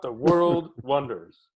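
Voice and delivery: "The world wonders" slowed, a laugh breaking in; repeating the rebuke through laughter; laughing quote. Retold or imitated. Quoting the professor's rebuke to a friend, laughing. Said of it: "That's, that was my chew out".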